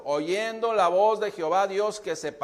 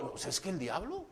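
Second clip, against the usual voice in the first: mock whiny excuse; 11 dB quieter than usual. Mocking believers' devil excuses.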